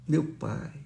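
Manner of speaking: quiet, low murmur; softly. Retold or imitated. Humbled man repeating his prayer softly. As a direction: say it gently, barely above a breath.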